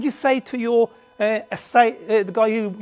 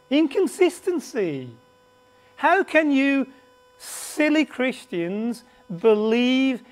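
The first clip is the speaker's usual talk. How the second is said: mocking critic. Teacher voicing a sceptic who mocks the Gospels, lightly scoffing. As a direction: sneer at the silly Christians, half-hearted. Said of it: "If you're a critic".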